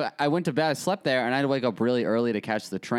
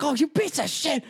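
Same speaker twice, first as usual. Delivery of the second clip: much higher put-on old Italian grandma. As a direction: squeal it like a cranky old grandma. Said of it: "And she's like".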